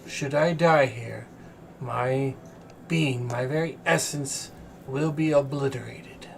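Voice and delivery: chained celestial diva. Acted. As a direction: speak as a weary, captive angel.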